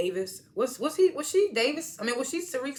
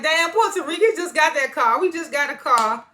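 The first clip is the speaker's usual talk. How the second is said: laughing pity; 6 semitones higher, 5 dB louder than usual. Real, not acted. Laughing reaction to losing car.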